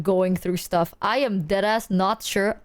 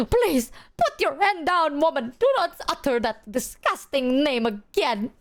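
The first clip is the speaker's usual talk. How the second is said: horrified plea; 3 semitones higher, slower than usual. Retold or imitated. Retold horrified plea to mom.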